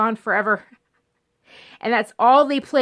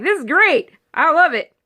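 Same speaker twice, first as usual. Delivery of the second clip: delighted; 6 semitones higher, 6 dB louder than usual. Retold or imitated. Replaying a favourite movie.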